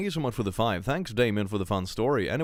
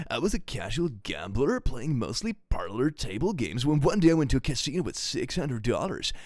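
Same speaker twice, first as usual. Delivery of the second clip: surfer bro voice. Acted. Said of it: "a surfer bro voice".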